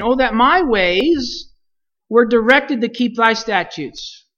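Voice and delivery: a prayer spoken as a heartfelt plea; pleading supplication. Acted. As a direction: voice it as the psalmist's cry to God. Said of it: "and now here's my supplication".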